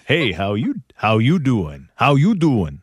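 repeated drawled pickup line; McConaughey impression. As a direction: lay on the Texan charm. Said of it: "Matthew McConaughey, kinda".

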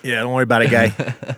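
lightly put-on Boston accent; a hint of joking Boston local. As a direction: play along in a mock Boston accent. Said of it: "use our Boston accents all the time".

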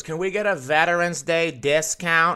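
mock drunken pestering; hammered heckler. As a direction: imitate a drunk woman demanding something. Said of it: "this girl's fucking hammered".

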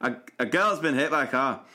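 put-on "girl's" said in a Glaswegian accent so it sounds like "squirrel's"; a light Glaswegian accent, blurring "girl" toward "squirrel". Shown as a demonstration. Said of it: "I'm trying to do this so that it sounds like".

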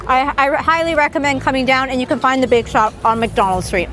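talking through a bite; words round a mouthful of pastry; mouth full. Real, not acted. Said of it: "can't talk with my mouth full".

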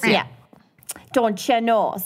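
put-on Minnesotan accent. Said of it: "their worst Minnesotan accents".

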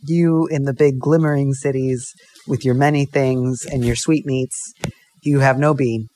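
simple French farmer, slow and earnest; badly faked French accent, words drawn out; mock French accent. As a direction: play a humble farmer with a hazy French accent. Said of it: "things with a French accent".

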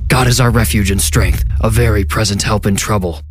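a mild shout, voice gone strange; shouted scripture. A narrator's reading. Stranger hurling a psalm at the janitor through the glass. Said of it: "threw himself against the glass and shouted".

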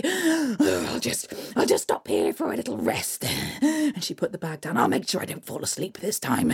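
weary hag muttering; troll hag. Acted. Troll hag tires under the bag, weary muttering. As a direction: puff under the heavy bag.

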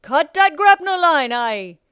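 high, roared order; urgent sea captain's bellow; Captain Nightlighter. A narrator's reading. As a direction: roar it over the deck, easing at the end. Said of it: "Captain Nightlighter roared".

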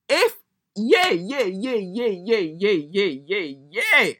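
high, loud cackling yeahs through laughter; hysterical laughing. Real, not acted. Laughing hard at the driver's words, high and loud. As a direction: crack up helplessly. Howling at her own story.

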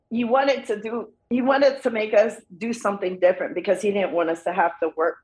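choked up, fighting tears. Real, not acted. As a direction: voice tight with emotion. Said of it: "As I'm getting choked up".

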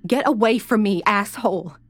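scream. Acted. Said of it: "then screamed".

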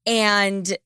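drowsy. Real, not acted. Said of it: "I am so loopy. I am so drowsy".

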